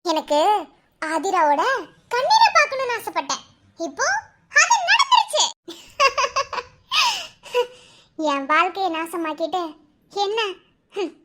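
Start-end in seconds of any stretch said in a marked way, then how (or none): 0.1-5.4 gloating laugh. Acted. Villainess gloating over rival's tears. 6.0-6.6 short high villain laugh; a smug wicked chuckle; evil gloating laugh. Acted.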